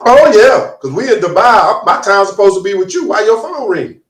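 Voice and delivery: mock jealous confrontation; indignant wife. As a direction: play a wife challenging her man over his phone. Acting a wife confronting her man.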